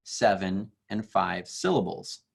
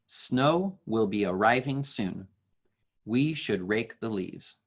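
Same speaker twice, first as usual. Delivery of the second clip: poem reading. Shown as a demonstration. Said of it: "It says".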